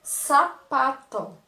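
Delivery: "Sapato" slow and loud with a hissed S; teacher drawing out "Sapato" for pupils; strong S, slow. Shown as a demonstration. Teacher slowly demonstrating a strong S in "Sapato". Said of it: "o som dele é mais forte".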